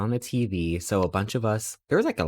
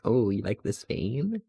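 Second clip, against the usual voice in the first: flustered; 3 semitones higher than usual. Retold or imitated. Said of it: "I was getting flustered".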